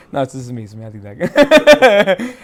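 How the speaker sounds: laughing admission of fault; real laughter. Real, not acted. Rabbi admitting the written mistake is his own, laughing. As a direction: break up laughing while owning up.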